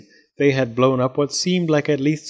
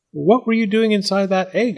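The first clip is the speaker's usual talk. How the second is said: curious cat; 8 semitones higher than usual. A narrator's reading. Cat questions the doll.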